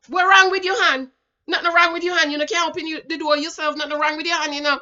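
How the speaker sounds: loud, high mocking of the boyfriend; mock indignant boyfriend. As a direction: throw his scoffing question back at her. Voices the boyfriend's retort.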